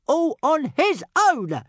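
high, slow, squeaky dragon; little dragon voice. A narrator's reading. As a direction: draw it out in a tiny dragon voice. Toothless speaks in dragon voice.

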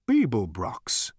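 slow, breathless gasp of amazement; amazed gasp. Acted. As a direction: gasp the name in disbelief. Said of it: "gasped Gargravar's mind in amazement".

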